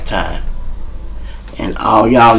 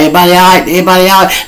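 higher, louder urgent call; 8 semitones higher, 4 dB louder, much faster than usual. Retold or imitated. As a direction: check on everyone across the lot. Arriving at a shooting scene.

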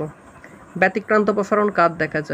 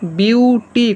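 mildly raised demonstration shout; mock calling out; 3 semitones higher, much slower than usual. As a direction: call it out in two split syllables, BIU-TI. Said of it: "এ চেঁচাচ্ছে".

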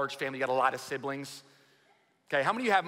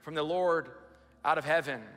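dramatic scripture reading. Acted. Reads Genesis aloud.

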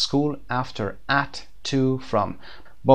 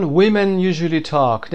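slow teaching read; 6 semitones higher, 5 dB louder, much slower than usual. Shown as a demonstration. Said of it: "در مثال one".

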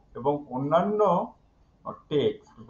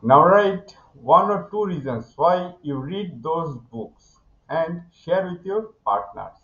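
slow textbook reading; 2 semitones higher, 3 dB louder, much slower than usual. Shown as a demonstration. Teacher reads textbook task aloud.

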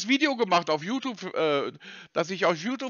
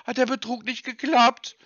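mock pity; 3 semitones higher, 3 dB louder than usual.

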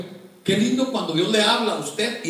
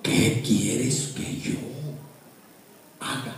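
trembling, fearful; 6 semitones lower, slower than usual. Acted. Saulo asking the Lord what to do, trembling and fearful. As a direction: let the question drop away, awed. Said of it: "temblando, temeroso, dijo".

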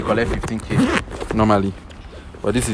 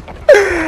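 high, loud wailing cry; shrieking half-laugh of pain; pained outburst; 9 dB louder than usual. Real, not acted. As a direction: wail after a hard slap. Outburst after being slapped.

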